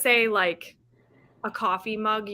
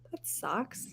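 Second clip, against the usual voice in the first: whispered; 13 dB quieter than usual. Real, not acted. Whispered sympathy.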